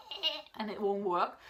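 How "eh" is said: short, higher-pitched "eh"; demonstrating unfit metal voice. Shown as a demonstration. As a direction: let out a feeble high "eh". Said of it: "my voice is just like".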